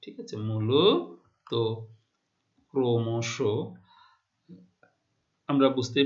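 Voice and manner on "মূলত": মূলত stretched very slowly, final অ said like ও; slow pronunciation demo. Shown as a demonstration. Teacher models মূলত for the class, very slow and careful. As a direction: draw out মূলত slowly with a rising end. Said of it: "উচ্চারিত মূলত".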